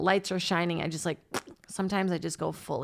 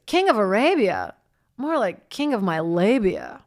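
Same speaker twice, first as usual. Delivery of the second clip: imitating Samantha's movie line; 5 dB louder than usual. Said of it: "no, she goes".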